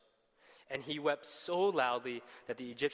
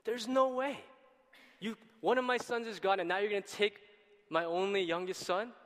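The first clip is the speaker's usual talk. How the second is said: higher and louder protest, father won't let his son go; upset father refusing; 6 semitones higher, 4 dB louder than usual. Retold or imitated. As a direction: insist hard, voice climbing in protest. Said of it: "and Jacob's like".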